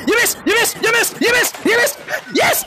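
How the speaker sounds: high, gleeful repeated taunt; rising chant ending in a high cheer; excited taunt. Real, not acted. Streamer teasing the shark who missed, gleeful.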